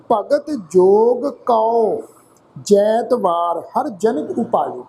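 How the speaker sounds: slow, measured recitation; scripture recitation. Acted. Teacher recites the verse for the congregation, slowly. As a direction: read each word out slowly.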